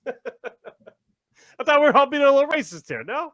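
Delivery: high, incredulous imitation; hammed-up baffled innocence; mock bewilderment. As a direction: check hopefully that everyone agrees. Acts out the shocked man's protest.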